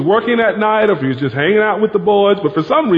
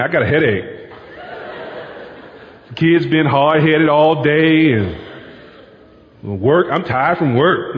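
a lightly voiced weary wife brushing him off; tired wife; 3 semitones lower than usual. Wife turning down her husband at bedtime, weary and dismissive. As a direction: sigh out the excuses. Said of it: "You know what she's saying?".

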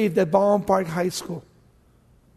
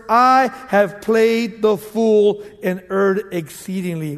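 Saul's lament; 4 dB louder, slower than usual. Acted.

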